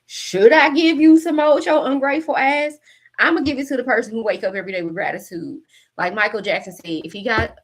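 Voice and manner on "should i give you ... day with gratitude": mock scolding. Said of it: "So Spirit is saying".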